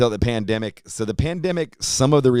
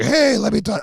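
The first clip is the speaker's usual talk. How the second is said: much higher, a mock rowdy drunk friend; drunk Vogbag; 13 semitones higher, 3 dB louder than usual. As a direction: voice him wasted at dawn. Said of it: "he comes up like".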